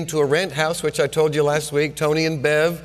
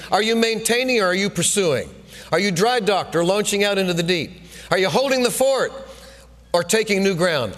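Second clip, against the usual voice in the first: coach firing questions; 3 semitones higher than usual. Retold or imitated. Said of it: "our coach was getting after us".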